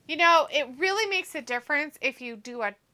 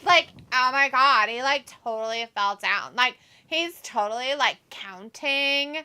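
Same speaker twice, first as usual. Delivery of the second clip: put-on Valley girl voice. Shown as a demonstration. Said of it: "sound like a Valley girl".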